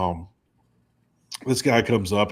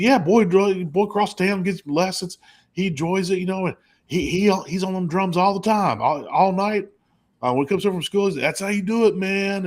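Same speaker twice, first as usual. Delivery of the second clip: proud redneck dad; 8 semitones higher than usual. Retold or imitated. Redneck dad voiced in story.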